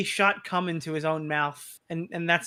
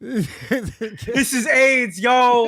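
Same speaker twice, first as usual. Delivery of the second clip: laughing; 3 semitones higher, 4 dB louder, much slower than usual. Real, not acted. Laughing repeat of catchphrase.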